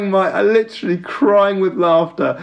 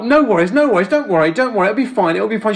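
apologetic friend; 4 semitones higher, faster than usual. Retold or imitated. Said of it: "you're so apo".

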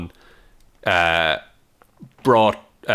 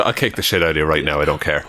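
lower, faster, a put-on tough-guy threat; mock hard man; 8 semitones lower than usual. Playing the alpha, threatening his co-host in a low fast voice. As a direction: growl it like a pub hard man picking a fight.

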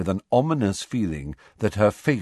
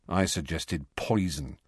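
grim; 3 semitones lower, 4 dB quieter than usual. Acted. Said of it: "said Ron grimly".

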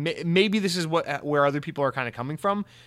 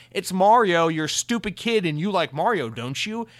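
mocking sales pitch, pitched up; mock condescension; 5 semitones higher, 4 dB louder than usual. Studio pitching a movie to kids, mockingly condescending. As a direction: talk down to a kid in mockery.

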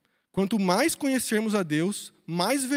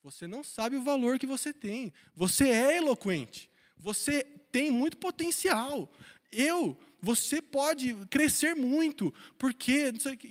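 lightly acted coach pep talk, drawn out; a hint of coach-style encouragement; motivational coach; 3 semitones higher than usual. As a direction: stretch the words like a coach hyping someone up. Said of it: "se fosse um Deus coach, ia falar assim".

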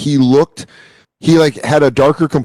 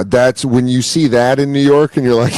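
ordinary talk, nothing marked

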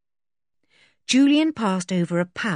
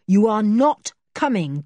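insisting stop; firm; 4 semitones higher, 5 dB louder than usual. A narrator's reading. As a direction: stress on not. Julian forbidding Joe.

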